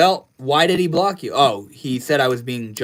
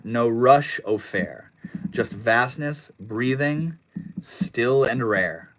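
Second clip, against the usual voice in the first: slow, measured poem recital; poem reading; slower than usual. Shown as a demonstration. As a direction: read each line slowly, letting it breathe. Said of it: "I wrote a poem today".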